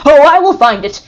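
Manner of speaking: high, loud crazed shout; mad cry. A narrator's reading. Mad father vowing to find his son. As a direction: cry out in wild madness. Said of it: "he cried".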